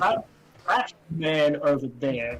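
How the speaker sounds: slow mock American accent; put-on American accent. Woman imitates Americans talking about her friend, slow American accent. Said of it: "I'd rather do the Southern accent".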